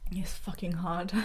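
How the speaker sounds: a real, broken-down whisper, slow. Real, not acted. Telling the interviewer how hard her brother's dying was, in a slow whisper. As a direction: barely get the words out, slowly.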